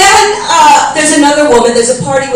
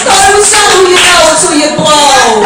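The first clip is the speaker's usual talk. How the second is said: punchline; 4 semitones higher, 4 dB louder than usual. Acted. Punchline twist of mantra.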